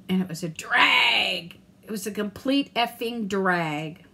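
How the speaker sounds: slow, drawn-out fed-up complaint; fed-up sigh. Real, not acted. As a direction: lean into the annoyance. Venting about the bad day.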